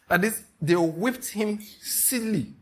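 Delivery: slow, laughing repeat of the punchline; amused repeat. Real, not acted. Preacher chuckling over the woman's revenge, slow and amused. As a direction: savour it, still laughing.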